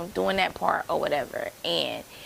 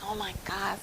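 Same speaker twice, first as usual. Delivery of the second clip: whispered shock; 7 dB quieter than usual. Retold or imitated. Shocked reaction, quoted.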